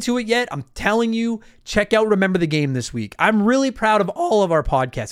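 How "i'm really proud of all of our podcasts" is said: voice crack. Real, not acted. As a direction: voice cracks mid-sentence. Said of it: "There's the voice crack".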